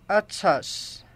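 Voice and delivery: "Atus" with ts in the middle and s at the end; "Atus", cute form pronounced at-sas; baby talk. Shown as a demonstration. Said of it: "the ch sound to ts".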